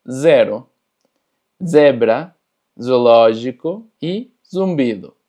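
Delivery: zero, zebra said with a strong buzzing z; each z pressed into a vibrating buzz; buzzing Portuguese Z. Shown as a demonstration. Teacher drilling the Portuguese Z, buzzing z. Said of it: "un poquito más forzado".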